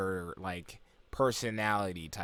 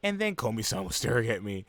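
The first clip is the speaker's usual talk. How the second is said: put-on high, girlish inner monologue; high-pitched shy narrator; put-on narration voice; 10 semitones higher than usual. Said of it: "It's just me doing the effect for that".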